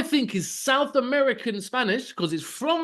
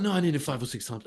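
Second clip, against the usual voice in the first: mimicking girlfriend; 7 semitones lower, 6 dB quieter, faster than usual. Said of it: "She's like".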